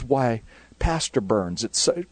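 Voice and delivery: slow, drawn-out Southern belle greeting; a polite Southern lady welcoming the pastor; Southern accent. Retold or imitated. Southern mom greets the youth pastor in a slow Southern accent. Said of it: "beautiful Southern accent".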